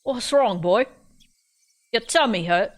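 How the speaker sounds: bad British accent, captor asking the boy. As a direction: captor asks the sick boy, in a lightly mocked British accent. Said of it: "How's my, uh, British accent?".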